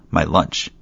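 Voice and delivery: talking through food; mouth full. Acted. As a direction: mumble with a mouthful. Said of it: "with her mouth full".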